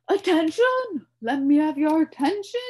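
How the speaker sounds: high, loud royal call; insisting. A narrator's reading. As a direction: demand attention, pounding the table. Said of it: "insisted the king".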